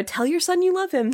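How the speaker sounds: high, quick imitation of a pushy mom; mock nagging mom. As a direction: chirp it like a nagging mother, lightly mocking. Mom nagging in retold scene.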